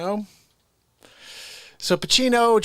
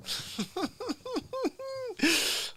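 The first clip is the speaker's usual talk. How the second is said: mock wheezing laugh; 9 dB quieter than usual. Laugh after impression.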